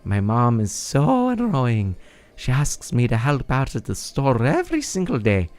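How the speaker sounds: lightly voiced exasperated kid, leaping high at times; mildly hammed-up complaining; whiny Rito villager. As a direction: grumble dramatically about an annoying parent. Voices Faison complaining about mom.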